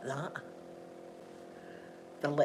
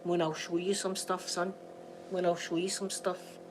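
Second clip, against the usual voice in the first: flirty low murmur; 2 semitones lower, 7 dB quieter than usual. Retold or imitated. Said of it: "just saying to him".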